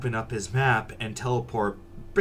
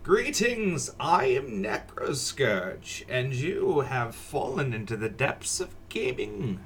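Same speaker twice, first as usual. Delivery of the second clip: dramatic villain host. Acted.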